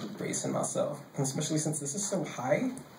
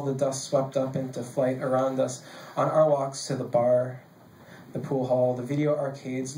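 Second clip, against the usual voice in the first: measured poetry recital, lingering on the images; poem reading; 2 semitones lower than usual. Acted. Poet reading a poem about bars to an audience, measured cadence. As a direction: recite it evenly, slowing into a list of images.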